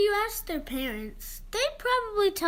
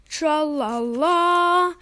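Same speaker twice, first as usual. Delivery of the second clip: heroic tra-la-la; 9 dB louder, much slower than usual. Acted. Captain Underpants' entrance cry.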